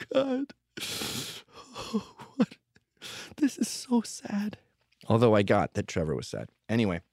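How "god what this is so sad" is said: slow, high, whispered mock sorrow; mock weepy. Mocking a crier after stubbing his toe, whispered mock sadness. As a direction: pretend to well up over a stubbed toe, whispering. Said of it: "the last thing I would think".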